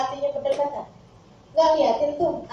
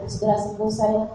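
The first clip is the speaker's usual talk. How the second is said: tender; 5 semitones lower than usual. Acted. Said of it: "Orang kalau udah sayang gitu".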